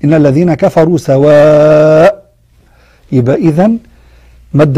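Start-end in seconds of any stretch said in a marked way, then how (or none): 0.0-2.3 سواء closed on a drawn-out alif, recited slowly; stopping with alif. Shown as a demonstration. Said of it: "أقف عليها".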